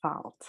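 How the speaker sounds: fault with an unrounded AH; contrasting vowel. Shown as a demonstration. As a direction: say fault as FAHLT. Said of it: "as opposed to fault".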